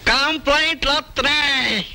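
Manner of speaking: high-pitched, exasperated comic rant; indignant outburst. Acted. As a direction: scoff at it in a high, rushing voice. Dismissing the excuse, storming off.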